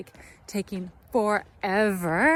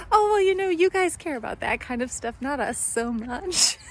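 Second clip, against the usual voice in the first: amused officer; 5 semitones higher than usual. Retold or imitated. Officer teasing about paperwork.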